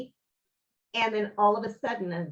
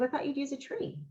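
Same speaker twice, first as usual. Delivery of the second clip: repeated softly, a touch higher; softer higher retelling of the husband; 6 semitones higher, 5 dB quieter than usual. Retold or imitated. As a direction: quietly say it again, higher. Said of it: "And he goes".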